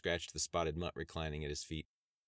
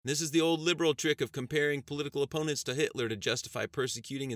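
congressman arguing; 4 semitones higher, 5 dB louder than usual. Acted. Congressman argues on TV.

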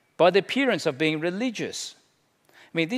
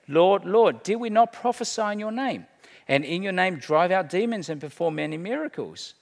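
pleading claimants; 4 semitones higher than usual. Acted. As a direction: call out Lord Lord as the self-assured faithful. Claimants pleading within Jesus's quote.

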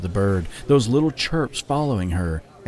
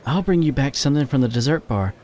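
promising; 5 semitones higher than usual. Acted. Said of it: "Shady promised".

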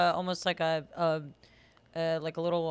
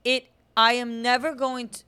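loud, higher emphatic vow; emphatic declaration; 5 semitones higher, 9 dB louder than usual. Real, not acted. Refusing to fake French, loud and emphatic. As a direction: swear it loudly.

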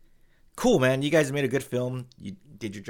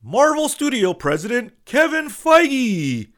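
much higher, louder, slow grand reveal; big announcer reveal; 13 semitones higher, 10 dB louder, slower than usual. Retold or imitated. Host revealing the studio boss, grand announcer reveal. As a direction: sell the name like a ring announcer. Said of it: "the guy goes".

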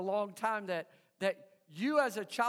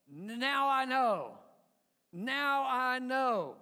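mock detective; slower than usual. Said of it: "A detective".

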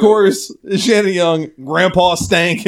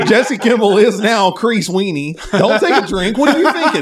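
laughing; 3 semitones higher than usual. Real, not acted. Reading names while laughing.

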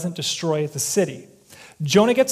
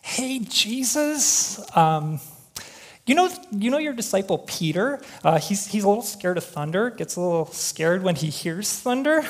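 calm disciple. Acted. Disciple politely waking sleeping Jesus for scared Peter, calm and tentative. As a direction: gently try to wake him, lilting up at first. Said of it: "approached Jesus calmly, saying".

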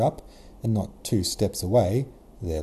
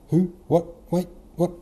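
high-pitched, disbelieving little questions; completely thrown, in a much higher voice; baffled surprise; 10 semitones higher, 5 dB louder than usual. A narrator's reading. Anatole caught by Princess Mary, baffled. Stunned face given words.

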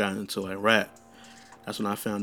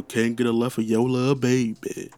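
a singer's voice. Retold or imitated. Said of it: "I had the singer going on".

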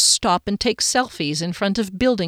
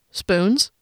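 rising, disbelieving Spoons?; Spoons? asked with a sharp upward lift; surprised question. Acted. Guard questions the odd spoons.

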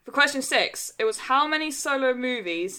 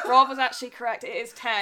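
laughing; 2 semitones higher, 5 dB louder than usual. Real, not acted. Laughing while announcing.

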